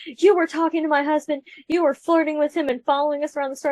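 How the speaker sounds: mock an accusing wife, without full yelling; retold angry accusation. Jealous wife accuses a stranger in the parking lot, retold scolding. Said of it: "she's yelling at me".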